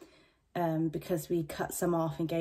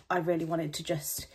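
out of breath. Real, not acted. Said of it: "sorry, I'm really out of breath".

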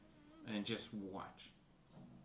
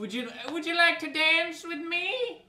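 polite invitation voice; 13 semitones higher, 4 dB louder than usual. Pretend. Asking character to dance.

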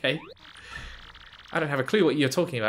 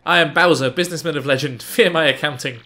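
louder, hammed-up villain boast; lightly voiced pompous Bowser; mock Bowser boast; 6 dB louder than usual. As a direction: puff up like a proud king.

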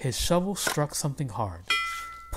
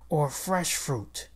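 wistful whisper. Acted. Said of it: "wished Mister Haktak".

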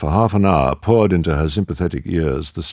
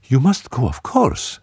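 evenly; 9 semitones higher than usual. A narrator's reading. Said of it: "she said evenly".

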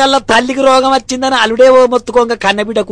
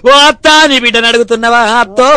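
mock wailing. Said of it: "అని మొత్తుకోబట్టి".

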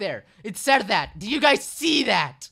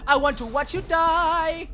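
creepy doll voice; 5 semitones higher, 9 dB louder than usual. Pretend. Jumpscare mock creepy voice.

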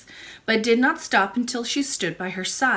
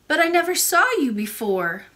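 put-on high little-girl voice; puzzled child princess; 6 semitones higher, 4 dB louder than usual. A narrator's reading. Princess challenges the old lady, puzzled and childlike. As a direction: object in a child's raised voice.

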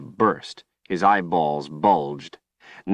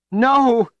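a piercing high scream; desperate high shriek; 7 dB louder than usual. A narrator's reading. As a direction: scream it in horror. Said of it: "Kalen screamed".

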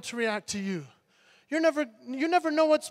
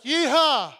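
reluctant yeehaw; 5 semitones higher, 6 dB louder than usual. Retold or imitated. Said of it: "I was like".

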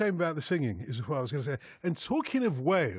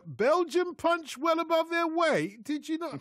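high, slow Welsh accent, sing-song and hammed up; mock Welsh lilt, pitched way up; 13 semitones higher, slower than usual. Teasing his co-host in a put-on Welsh accent. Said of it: "let me do this in a Welsh accent".

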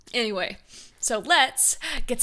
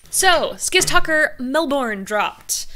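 excited announcement; 4 semitones higher, 8 dB louder, slower than usual. Real, not acted. Announcing new video excitedly.

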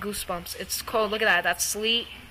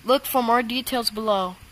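measured broadcast announcer read; weather alarm voice. Acted. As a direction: close the alert like an automated warning. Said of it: "the voice just sounds like me".

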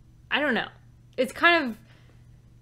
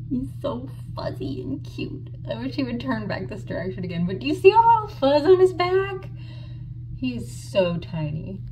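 hushed; 7 semitones higher than usual. Real, not acted. Quietly watching baby animals outside.

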